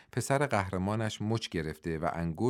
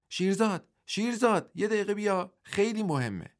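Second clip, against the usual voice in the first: calling out; 12 semitones higher than usual. A narrator's reading. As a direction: call شیرزاد back urgently from the doorway. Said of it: "فریاد زد". (فریاد بلند و زیر صدا زدن)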